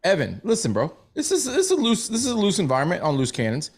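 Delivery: lightly voiced old Jewish guy; a hint of an old New York Jewish accent. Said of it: "That's my old Jewish voice".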